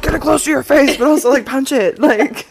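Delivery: coaching. Shown as a demonstration. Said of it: "coaching mic technique, playful".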